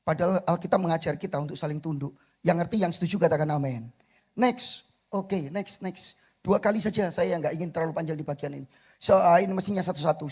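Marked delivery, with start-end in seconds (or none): none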